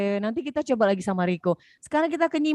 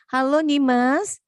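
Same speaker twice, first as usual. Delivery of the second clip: slow and loud, drawn out; to someone hard of hearing; 5 dB louder, slower than usual. Real, not acted. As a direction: call slowly so a struggling listener catches it. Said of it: "Kenapa nggak dengar ya suara kakak ya?".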